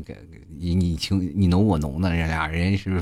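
normal talking voice

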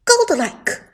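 booming announcer call; game announcer. Acted. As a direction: hype kill announcer voice.

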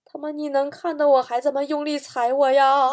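hammed-up indignant complaint; angry roar. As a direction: snarl it like an outraged woman who got stepped on. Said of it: "美女立马咆哮说".

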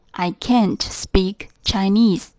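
slow, with can't stressed and falling. Shown as a demonstration. Teacher modelling the negative form, stressing can't. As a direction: lean on can't, keep it slow. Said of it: "否定形式就是I can't".

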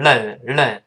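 "len" with a flicked pinyin l; Chinese-style "len", tongue springing off; wrong L. Shown as a demonstration. Teacher showing the mistake, pinyin-style flicked len. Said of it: "不是".

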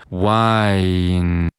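"wine" stretched slowly, closing on a front n; slow "wine" with a nasal n ending. Shown as a demonstration. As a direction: glide through "wine", then add the n. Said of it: "最后再把这个前鼻音".

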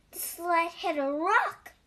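lively read-aloud with clear, measured phrasing; animated storytelling, words carefully spaced; children's story narration. A narrator's reading. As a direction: read a picture book to young children.

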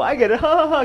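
high-pitched fake ha-ha-ha; mock laughter. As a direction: pretend to find the pun hilarious. Mock reaction to a bad pun.

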